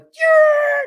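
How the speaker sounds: very high, loud squealed skid noise; imitated tire screech. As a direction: screech like tires sliding to a stop. Imitates car sliding in.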